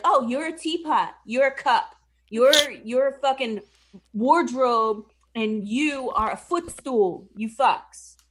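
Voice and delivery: loud, scornful curse; cursing enchantress. Retold or imitated. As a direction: sneer insults as a sorceress.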